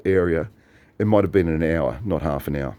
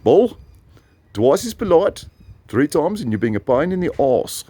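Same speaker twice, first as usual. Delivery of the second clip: high-pitched voice of a quoted friend; friend's catchphrase imitated; 9 semitones higher than usual. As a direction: deliver the scolding saying high and punchy. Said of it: "he gave me a phrase".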